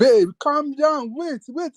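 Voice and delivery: real high-pitched interjection; hushing an interrupter. Real, not acted. Cutting off companion who interrupts the rant.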